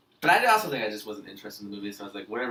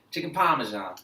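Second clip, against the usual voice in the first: lightly imitated New York accent on "Parmesan". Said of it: "Quinn does a little bit".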